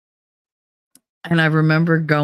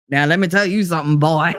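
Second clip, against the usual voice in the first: Foghorn Leghorn. Retold or imitated. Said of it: "Foghorn Leghorn".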